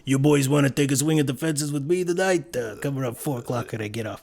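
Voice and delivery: lightly voiced flirty diner waitress; a hint of a sassy waitress drawling an offer. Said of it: "she used to talk like this".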